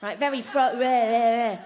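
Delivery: dull, laddish English heckler; mock English lout getting really into it; jeering English people. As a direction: taunt clumsily, punching out each insult. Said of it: "they get really into it".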